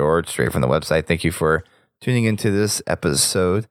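sick, hoarse voice; rough voice from a cold. Real, not acted. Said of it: "whenever my voice returns to normal".

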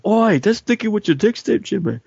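high-pitched mock British, veering Scottish; bad British accent. Shown as a demonstration. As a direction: attempt British and land near Scottish. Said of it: "I can't speak in a British accent".

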